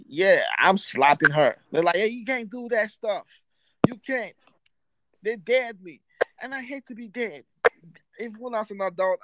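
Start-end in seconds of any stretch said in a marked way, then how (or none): 2.0-4.3 higher, daring voice of friends; mock the friends' dare, pitched up; lightly voiced teasing friends; imitating friends.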